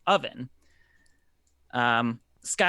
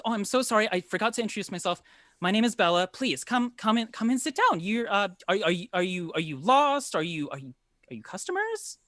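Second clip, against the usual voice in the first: high, hesitant, apologetic hostess; pitched-up woman's voice, polite and unsure; flustered baker woman; 6 semitones higher, faster than usual. Acted. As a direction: welcome strangers nervously, stumbling over questions. Game master plays flustered baker Bella.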